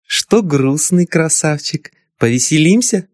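sweet, teasing invitation; sweet flirty voice. Acted. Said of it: "сладким голоском спросила".

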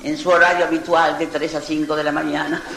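slow, formal announcer read; quoting a comedy group's radio gag; mock radio announcer. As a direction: intone it like state radio. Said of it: "aquella frase famosa".

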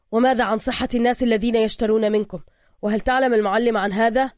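indignant demand; angry question. Acted. Bruce confronting the worker, mildly angry. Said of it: "فقال بروس بغضب".

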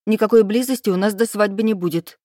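each word spaced and hit firmly; every word clipped out. Acted. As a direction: rap out every word, unyielding. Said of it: "Я отчеканила каждое слово".

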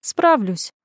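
lightly scoffing confidence; mildly defiant snort. A narrator's reading. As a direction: scoff to hide disappointment. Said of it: "фыркнула я".

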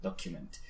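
"Document" softly, with a "kyoo" middle; U as "you". Shown as a demonstration. Teacher repeats the better version, soft "Document" with a "you" U. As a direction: say "Document" low and soft as DOK-you-ment. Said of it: "Suena muchísimo mejor".

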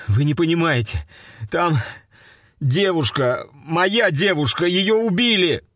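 high, pleading, desperate voice. A narrator's reading. Man begs sergeant to listen, desperate pleading. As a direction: beg him to understand, near panic.

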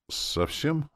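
high, small, bewildered "Совсем"; lost voice. A narrator's reading. Demoness hears of the deaths, lost. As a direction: ask "Совсем" as if at a loss. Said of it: "спросила потерянным голосом".

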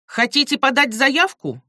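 flat robotic counter clerk. Acted. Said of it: "сухо спрашивает женщина за стойкой голосом робота".

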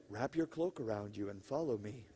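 soft, low angel voice with a laugh in it; tender angel. Retold or imitated. Angel softly guiding dazed Peter out of prison, tender. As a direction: gently lead him out, chuckling softly. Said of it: "I love this, it's so tender".

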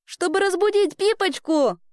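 put-on high, delighted child's voice; joyful girl. A narrator's reading. Girl learning why he dug, joyful. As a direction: keep it high and overjoyed. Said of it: "продолжала радоваться Эльга".

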